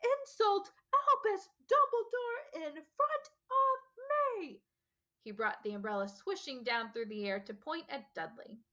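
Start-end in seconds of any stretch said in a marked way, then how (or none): 0.0-4.6 high, slow, outraged bellow; thundering roar. A narrator's reading. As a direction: drag out every word in fury. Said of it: "he thundered".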